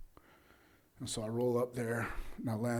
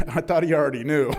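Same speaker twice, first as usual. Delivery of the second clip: loud, laughing through the words; tickled by your own blunder; amused confession; 3 semitones higher, 9 dB louder than usual. Real, not acted. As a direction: admit it with a chuckle.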